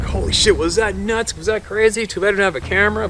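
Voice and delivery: high-pitched retold excitement; giddy high chatter, imitated; all excited. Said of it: "laughing and all excited".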